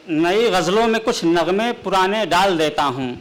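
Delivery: measured, declaiming poetic delivery; ghazal recitation. Acted. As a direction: recite the couplet grandly.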